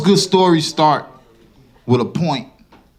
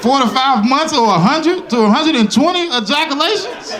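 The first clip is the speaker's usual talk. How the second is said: high, loud, disbelieving question; can't believe what he just heard; incredulous repeat; 9 semitones higher, 4 dB louder than usual. Retold or imitated. Comic disbelief repeating the doctor's numbers.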